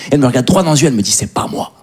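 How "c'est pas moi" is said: petit déni soufflé, presque sans voix; souffle-le comme une gamine prise en faute; déni d'enfant. Acted. Fillette niant face au père. (petite voix d'enfant qui nie tout bas)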